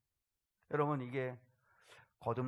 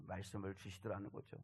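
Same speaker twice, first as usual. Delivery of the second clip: normal talking voice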